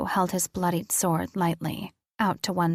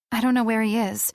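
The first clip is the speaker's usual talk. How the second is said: put-on higher and fast, the girl insisting; quick higher denial from the girl; girl's quick denial; 4 semitones higher, 4 dB louder, faster than usual. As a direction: rush it out as the young heroine. Girl's denial, later echoed by Riker.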